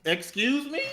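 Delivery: high, incredulous excuse me; mock outrage. Host retelling the awards stream, mock indignant surprise. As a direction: play up the disbelief at the award. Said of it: "It was like".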